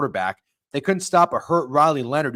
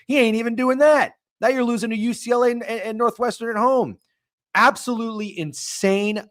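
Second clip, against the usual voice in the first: pitched way up, louder and fast, exasperated; rising fury at the losses; heated rant; 9 semitones higher, 3 dB louder than usual. Real, not acted. Streamer ranting to chat about Penn State losses, voice climbing in anger.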